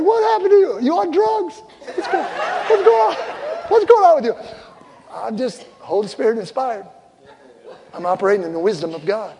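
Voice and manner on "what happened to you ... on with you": much higher, laughing mock wife voice; astonished wife. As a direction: play the startled wife, half laughing. Wife's stunned retort, retold.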